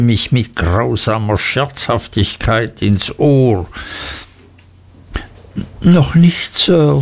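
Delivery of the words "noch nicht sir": put-on higher-pitched, wincing boy's answer; timid, hurting schoolboy; pained. A narrator's reading. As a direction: answer respectfully while shrinking from pain. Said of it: "vor Schmerzen zurückweichend".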